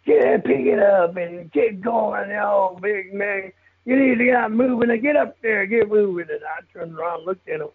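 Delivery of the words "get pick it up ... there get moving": raised, slow mock yell from horseback, higher pitch; imitated yelling rider. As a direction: hurry the new guys along like a rider barking orders, half-acted. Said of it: "he's yelling at us".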